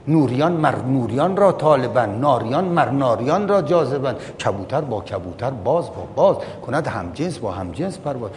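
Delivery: rhythmic verse recitation; poem recitation. Acted. Preacher quotes verse on like attracting like, rhythmic recitation. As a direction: recite the couplets in a measured swing.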